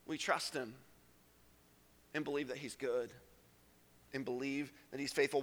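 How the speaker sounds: soft low confession; quiet sincere affirmation; hushed. Real, not acted. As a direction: speak it tenderly.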